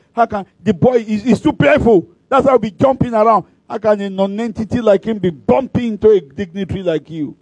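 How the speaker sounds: mildly outraged on the guest's behalf; indignant scolding. Retold or imitated. Pastor to a man who bumped the dignitary, mock scolding.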